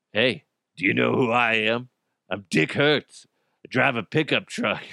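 a hint of a smug truck driver; lightly voiced swagger; entitled driver. Red-light runner boasts who he is, lightly smug.

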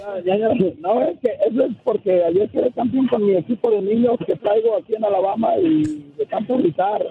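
raspy, shouted-out voice; hoarse throat after yelling. Real, not acted. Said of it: "La garganta".

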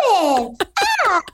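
put-on toddler voice. Mother doing her son's high-pitched toddler talk. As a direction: mimic the baby's high-pitched chatter. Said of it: "he only talks in a really high-pitched noise".

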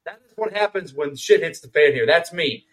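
ordinary talk, nothing marked

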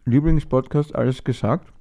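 talking while chewing gum; words round a big gum; mouth full. Real, not acted. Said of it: "jetzt darf ich so reden".

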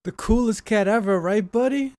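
high sing-song voice for the cat; talking to a pet. Real, not acted. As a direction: coo it to the cat. Cooing to the cat.

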